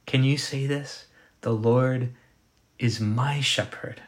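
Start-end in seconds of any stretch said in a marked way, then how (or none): 1.4-4.0 measured line leaning on "my"; pause, then lean slowly on "my"; stress on "my". Shown as a demonstration. Preacher asking can you say this, stress on "my". Asks listeners to say it.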